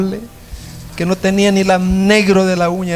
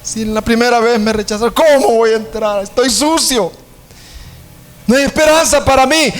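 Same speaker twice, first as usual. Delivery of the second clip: higher, plaintive lament; despairing singer; 5 semitones higher than usual. Acted. Dirty singer tells the prince his despair, higher and pleading.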